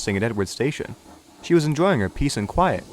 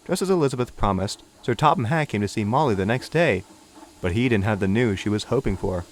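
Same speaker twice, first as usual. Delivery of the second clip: usual speaking voice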